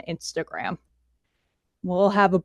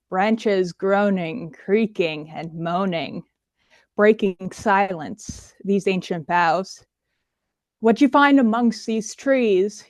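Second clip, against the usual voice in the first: poetry reading. Acted. Performs her spooky poem.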